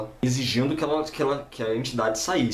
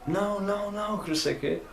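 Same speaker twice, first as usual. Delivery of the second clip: high, held-back mock yelling; imitated screaming protest; 9 semitones higher than usual. Entity protesting being taken from the room, mock screaming. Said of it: "Começou a gritar".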